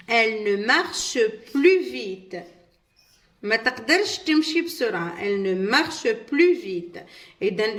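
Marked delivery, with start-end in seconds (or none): 0.1-2.4 very slow, each French word laid out clearly; slow model reading. Shown as a demonstration. Teacher reads the example sentence to pupils, slowly. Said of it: "نبداو نقراو". 5.2-7.0 very slow, each French word laid out clearly; slow model reading. Shown as a demonstration. Teacher reads the example sentence to pupils, slowly. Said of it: "نبداو نقراو".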